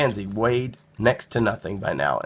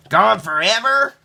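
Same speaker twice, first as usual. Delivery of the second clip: high, slow alarmed question; small boy startled by bad news; 11 semitones higher, 7 dB louder than usual. A narrator's reading. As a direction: gasp it out in disbelief. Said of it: "asked Nicholas".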